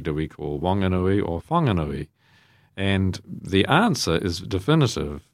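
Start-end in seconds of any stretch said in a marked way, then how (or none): 0.6-1.3 "Wanganui" with silent H at the start; W pronunciation. Shown as a demonstration. Priest posing the debate over the river's name, plain W in "Wanganui". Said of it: "debate of what we call Wanganui". 1.4-2.1 "Whanganui" starting like "fan" or "fong"; Wh pronunciation. Shown as a demonstration. Priest posing the debate over the river's name, F sound in "Whanganui". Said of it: "debate of what we call Wanganui".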